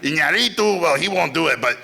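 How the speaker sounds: lightly voiced mentor impression; Guillermo del Toro impression. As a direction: play the opinionated mentor. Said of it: "And then he was like".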